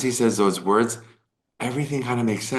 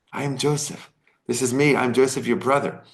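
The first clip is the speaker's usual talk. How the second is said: higher, lifted cry of I am Joseph; emotional reveal; 4 semitones higher than usual. Retold or imitated. Joseph finally revealing himself to his brothers, lifted and emotional. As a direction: let the reveal break out, a touch emotional.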